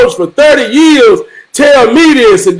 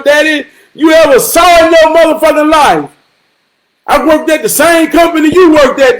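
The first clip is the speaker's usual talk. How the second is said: retold defiant outburst; 4 semitones higher than usual. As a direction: throw every success in his daddy's face, raised up high. Son retells boasting to his father.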